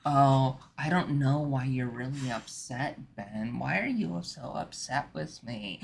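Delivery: lightly acted woman playing puzzled; a hint of mock-innocent pleading; mock upset woman. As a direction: imitate a woman acting oblivious to an argument. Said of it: "doing the whole woman thing".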